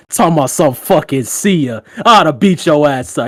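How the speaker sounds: mock-indignant telling-off; friend losing it. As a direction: imitate a friend roasting you. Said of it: "my nigga lost it".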